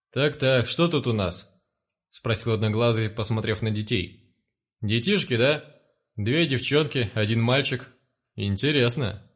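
a hint of a sneering gang leader; lightly voiced one-eyed brute eyeing the kids; menacing thug boss. One-eyed thug surveys the children.

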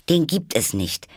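high, cross contradiction; very annoyed. A narrator's reading. Alice disputes the syrup well, annoyed and high. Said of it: "fing Alice sehr ärgerlich an".

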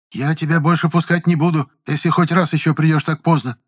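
a hint of a cranky old landlady; grumpy old woman. A narrator's reading. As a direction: grumble it out sourly. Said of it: "сварливо проворчала она". (ворчливая старуха)

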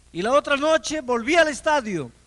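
rising preacher's punch on the repeat; emphatic build. Acted. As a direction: hammer the repetition home like a preacher. Repeated line, built up.

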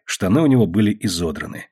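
ordinary delivery

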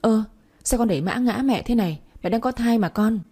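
giọng cao hơn hẳn, to, giả vờ kêu oan; la lên cho cả nhà nghe; nói lớn lên. Acted. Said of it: "nói lớn lên để bố nói và bà nội nghe thấy". (mẹ kế nói lớn để bố và bà nghe, giọng cao)

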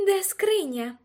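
high, loud demanding question. A narrator's reading. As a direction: demand an answer at once. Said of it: "зажадала вона".

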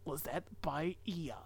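whispered title reading; whispering. Acted.

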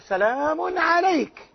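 slow, soft and gentle "سلام عليك"; peaceful reply to a harsh father; gentle greeting. Retold or imitated. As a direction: answer harshness with calm peace. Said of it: "حتى لما أغلظ له والده، إيش قال؟".

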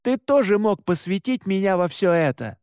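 angry yell. Acted. Son yells at brother.

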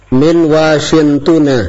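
Min Washingtona, slow, the final -na clearly sounded; teacher's correction. Shown as a demonstration. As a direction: say Min Washingtona slowly with a full -na ending. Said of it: "Hidupkan nunnya".

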